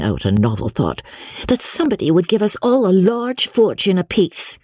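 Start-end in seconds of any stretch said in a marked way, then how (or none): 1.5-4.6 put-on high-pitched girlish wishing; wistful young Margaret. A narrator's reading. Margaret wishing for a fortune for everyone, wistful. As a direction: wish it aloud in a higher voice.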